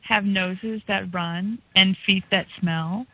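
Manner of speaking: rhythmic wordplay recitation; Cullen's cadence. Retold or imitated. Host reading a guest's article like him, rhythmic recitation. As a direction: lean on the rhymes, phrase by phrase with pauses. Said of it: "I like talking like this".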